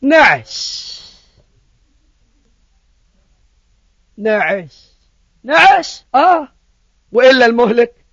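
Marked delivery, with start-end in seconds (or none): 0.0-6.5 slow, drawn-out sleepy murmur; drowsy drawl. Pretend. Preacher mimicking the drowsy household at midnight, slow and sleepy. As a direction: let each word sink like nodding off.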